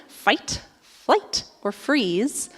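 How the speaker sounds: Fight, flight, or freeze said word by word; careful correction. Shown as a demonstration. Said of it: "it's like a tongue twister".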